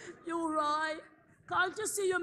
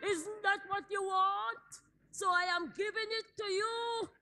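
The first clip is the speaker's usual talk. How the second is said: crying plea; 2 semitones higher than usual. Acted. Wife's crying offer.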